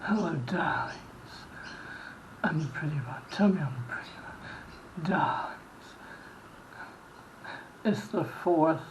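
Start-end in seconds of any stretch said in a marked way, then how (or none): 0.0-5.6 campy drag queen. Acted. Campy whispered greeting to fans.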